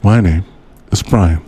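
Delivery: halting podcast-narrator impression; Aaron Mahnke. Host redoing his intro for his co-host, halting narrator impression. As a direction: pause mid-sentence for mock gravity. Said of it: "That was more Aaron Mahnke".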